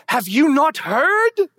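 booming question. Acted. Pastor booming Isaiah's question at the congregation. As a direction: proclaim it to the rafters.

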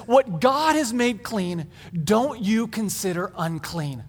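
slow, measured heavenly command; lightly voiced solemn divine instruction; solemn pronouncement. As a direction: pronounce it slowly and deliberately. Divine voice speaks in the vision.

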